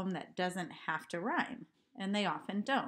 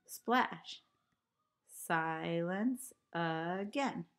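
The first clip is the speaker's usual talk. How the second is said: recited haiku line; much slower than usual. Shown as a demonstration. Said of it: "the last line has five syllables".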